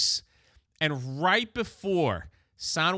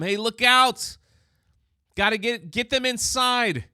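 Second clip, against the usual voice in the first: louder call of look out, slightly higher; retold battle shout, moderately raised; mock warning shout; 4 semitones higher, 4 dB louder than usual. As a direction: yell a warning across the battlefield, hammed up. Comrade calls out warning in battle.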